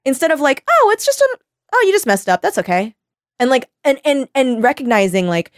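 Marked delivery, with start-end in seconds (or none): 0.7-2.9 much higher, light reassuring voice; imitating a gentle partner, high and kind; forgiving partner. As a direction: brush it off sweetly, pitched way up.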